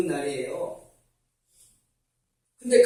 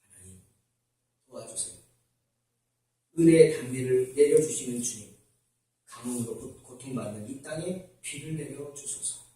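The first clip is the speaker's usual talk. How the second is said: a father's hushed, lower prayer; quiet prayer; 9 semitones lower, 8 dB quieter than usual. Retold or imitated. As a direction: pray softly at the table. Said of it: "앉아서 기도를 합니다". (아버지의 조용한 기도)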